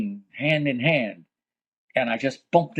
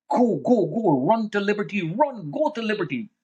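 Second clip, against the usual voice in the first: urgent retold shouting; 7 semitones higher than usual. Rescuers urging people to run.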